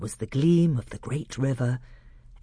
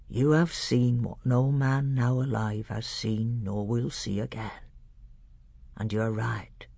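put-on lightly lower, solemn old tutor; a hint of a grave old scholar; old doctor; 3 semitones lower than usual.

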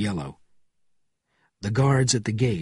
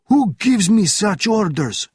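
high, loud, slow challenge; indignant shout; 10 semitones higher, 6 dB louder than usual. A narrator's reading. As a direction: shout it back, affronted. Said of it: "shouted the officer".

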